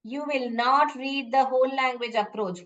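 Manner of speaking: slow, deliberate vow dictated word by word; slow solemn promise. Shown as a demonstration. Teacher dictating a vow to students, slow and deliberate. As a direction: spell out the promise slowly. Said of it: "शपथ ले लीजिए".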